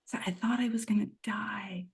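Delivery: barely voiced, breathy hush; whisper. Real, not acted. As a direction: breathe it out like a secret. Retelling near-death realization.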